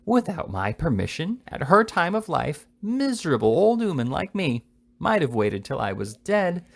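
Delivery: put-on a fussy old lady's put-upon grumbling; angry fragments. A narrator's reading. The old lady alone, fuming about her daughter, angrily. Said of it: "Fragments of angry sentences".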